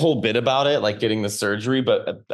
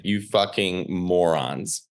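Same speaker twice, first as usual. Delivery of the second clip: scornful insult; 4 semitones lower, much slower than usual. Retold or imitated. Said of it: "looked at us like".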